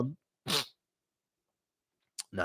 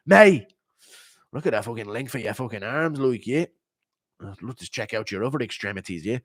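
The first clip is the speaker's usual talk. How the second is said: sus McGregor; 3 semitones lower than usual. Retold or imitated. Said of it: "Impression of gay Jon Jones meeting sus McGregor".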